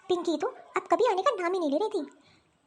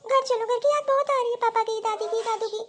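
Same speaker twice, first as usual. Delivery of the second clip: tearful pleading; 3 semitones higher than usual. Acted. Crying child begs to go home.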